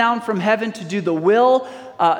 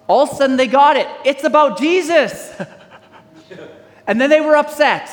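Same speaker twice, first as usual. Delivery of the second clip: laughing excitedly; 6 semitones higher, 4 dB louder than usual. Real, not acted. Preacher laughs at crowd's realization.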